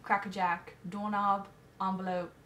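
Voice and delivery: put-on light British accent, listing the words; a nervous put-on British accent; mock British accent. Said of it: "English accents".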